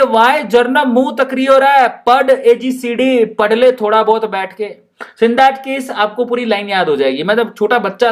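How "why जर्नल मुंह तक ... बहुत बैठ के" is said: Rajasthani scolding. Acted. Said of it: "madam कह रही है".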